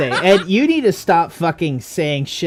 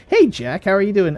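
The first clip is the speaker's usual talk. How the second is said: raised, chirpy mock greeting; louder, higher acted small talk; talking to oneself; 6 semitones higher, 3 dB louder than usual. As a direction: play one half of a silly dialogue. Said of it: "just like".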